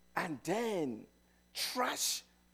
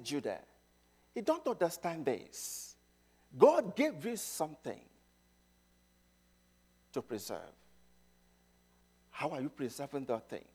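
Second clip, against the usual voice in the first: mild sorrowful plea; 3 semitones lower, 4 dB quieter than usual. Retold or imitated. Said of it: "Habakkuk was kinda crying".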